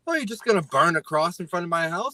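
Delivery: mock movie voice-over. Host dubbing his life movie, mock indignant. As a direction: parody his indignation, shooting high on the whoops. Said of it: "take the audio of this and put it over".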